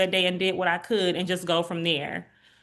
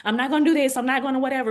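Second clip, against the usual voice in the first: higher, holding back tears; mock stubborn self; 5 semitones higher, faster than usual. Patient voicing someone refusing to cry, higher. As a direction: play someone forcing themselves not to cry. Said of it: "you're like".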